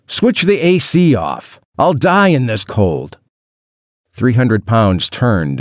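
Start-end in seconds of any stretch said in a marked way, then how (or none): 0.1-3.2 high, urgent protest, moderately raised voice; screamed plea. A narrator's reading. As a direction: plead desperately with the departing captor. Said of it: "I screamed".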